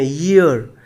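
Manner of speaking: ईयर said as "yeer"; pronunciation demo. Shown as a demonstration. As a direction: sound the y at the start of ईयर. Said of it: "ये लिखा हुआ है हिंदी में ईयर". (ईयर में 'य' साफ़ सुनाते हुए)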